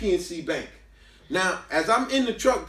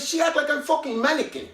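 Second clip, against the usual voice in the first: put-on higher, lightly accented security guard; Latino accent; 8 semitones higher than usual. Security guard Manny complaining about the rude girl in a higher, accented voice. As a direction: do the guard's broken-English gripe, pitched up.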